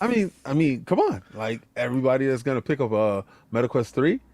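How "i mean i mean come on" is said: hard sell ad pitch, rising on come on; commercial voice. Acted. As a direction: pitchman pushing the product. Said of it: "Stop hitting me with the commercial voice".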